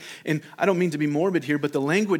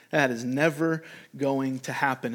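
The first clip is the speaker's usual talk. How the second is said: measured, firm stress on "never"; emphatic denial; 2 semitones lower than usual. Acted. Disciple answering Jesus's prediction, emphatic denial. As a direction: land "never" as a deliberate, understated vow. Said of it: "Peter emphatically says".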